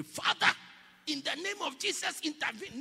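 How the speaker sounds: high, urgent acted prayer; mock fervent prayer. Preacher acting a believer praying with a friend, fervent. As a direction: call on God as if interceding. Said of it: "lift your hands, pray".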